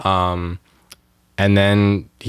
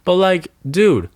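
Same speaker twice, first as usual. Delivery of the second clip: outraged disbelief; 6 semitones higher than usual. Real, not acted. Outraged rant at drivers.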